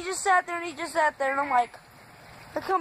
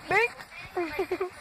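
bink sound effect; 4 semitones higher, 6 dB quieter than usual. Retold or imitated. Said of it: "it went bink".

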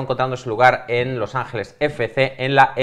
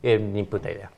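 put-on French accent; 3 semitones lower, 5 dB quieter than usual. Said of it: "yo intentaré poner acento francés".

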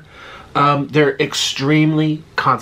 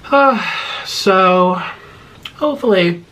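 excited; 5 semitones higher, slower than usual. Real, not acted. Excited trailing hope.

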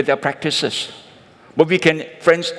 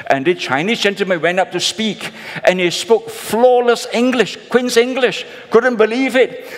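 rising amazement; 8 semitones higher than usual. Acted. Preacher building the joke's reveal, excited and high.

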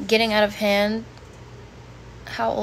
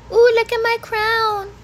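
showing off; 12 semitones higher, 6 dB louder than usual. Pretend. Showing off her crown.

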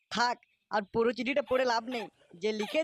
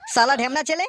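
loud angry rebuke; angry scolding; 3 semitones higher, 8 dB louder than usual. Acted. Father rebukes his son for the love letters, loud.

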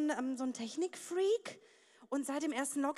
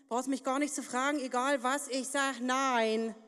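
firm refusal; 3 semitones lower, slower than usual. Retold or imitated. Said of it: "dann hab ich immer betont".

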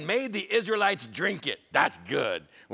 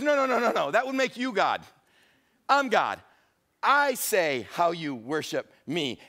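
God scolding. Acted. Preacher voices God scolding people.

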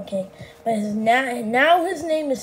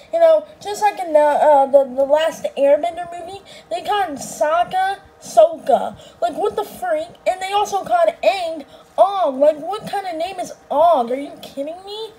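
a touch of an indignant rant, pushed louder; exasperated rant; 3 semitones higher, 3 dB louder than usual. Acted. Chica ranting to the host about the movie, lightly exasperated. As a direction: rattle it off, annoyed at the bad names.

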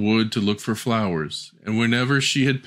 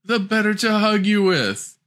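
higher, put-on grandmotherly voice hiding the wolf; sly wolf as grandmother; 10 semitones higher than usual. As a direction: lure her closer sweetly. Wolf in disguise answers.

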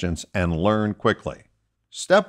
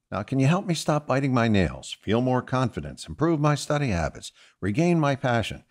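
higher, softer voice for clients' questions; lightly voiced clients; 4 semitones higher, 4 dB quieter than usual. Hypnotherapist quoting his clients' requests, lightly voiced askers. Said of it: "they want to know if it can help".

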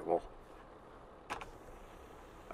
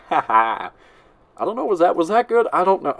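imitating his laugh; 9 semitones higher, 4 dB louder than usual. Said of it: "and then do his laugh".

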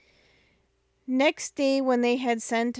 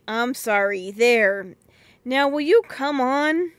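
impatient; 5 dB louder than usual. Acted. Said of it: "said Peter impatiently".

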